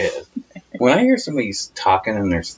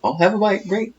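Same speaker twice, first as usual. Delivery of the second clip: higher, giving-in dad. Retold or imitated. Imitating dad giving in to mom, higher. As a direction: give in like a tired husband. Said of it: "He goes".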